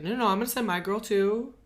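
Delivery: high and fast; quick mock insistence. Insisting her maid goes too, high and quick. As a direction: rattle off the refusal. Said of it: "she's like".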